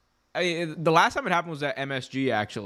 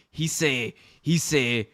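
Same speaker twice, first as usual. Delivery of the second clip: usual speaking voice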